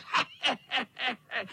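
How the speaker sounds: high, gleeful cackling laugh; high mischievous cat laugh; cat cackle. A narrator's reading. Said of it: "Chechtal se kocour".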